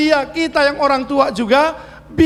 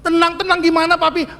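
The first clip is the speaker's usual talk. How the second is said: put-on child's higher protest; whiny child; 5 semitones higher than usual. Child protesting to father, a touch higher. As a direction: push back like an anxious kid. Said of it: "child retorts".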